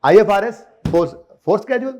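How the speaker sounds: quick memory-aid recitation; said in one go. Shown as a demonstration. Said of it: "इकट्ठा बोले, तेजी से बोले तो".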